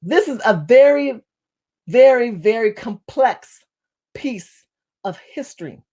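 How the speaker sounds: slowed down, spaced out word by word; deliberate, measured pace, falling away on "piece of history". Real, not acted. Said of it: "say it a little bit slower".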